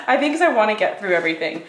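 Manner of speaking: quick, rushed explanation after a laugh; talking fast. Real, not acted. Vlogger wanting to get through everything, talking fast. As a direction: hurry through it, lightly amused. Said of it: "Am I talking fast?".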